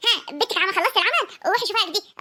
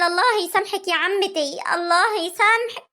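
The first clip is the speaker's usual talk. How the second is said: tearful lament; 3 semitones higher than usual. Acted. Daughter laments the rumour.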